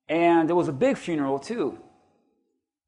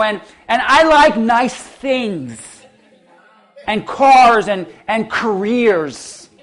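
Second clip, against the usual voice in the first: mocking drawl; 4 dB louder, much slower than usual. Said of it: "She said this".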